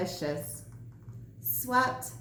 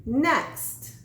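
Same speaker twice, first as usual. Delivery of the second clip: crowing sandwich; 4 semitones higher than usual. Acted. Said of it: "she crowed".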